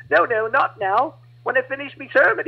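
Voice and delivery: preacher voice. Retold or imitated. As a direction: hold the convert back kindly. Preacher stops eager convert.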